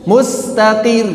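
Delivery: "Mustaqir" with the r stopped hard like a q; wrong reading. Shown as a demonstration. Teacher showing students another wrong reading. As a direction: clip the r of "Mustaqir" short and tight. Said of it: "Tidak dibaca mustaqir".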